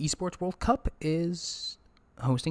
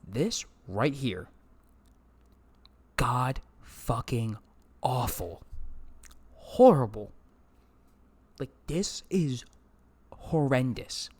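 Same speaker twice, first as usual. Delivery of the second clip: slow disgusted judgement of the bracket; disgusted verdict; slower than usual. Real, not acted. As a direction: drag out the contempt.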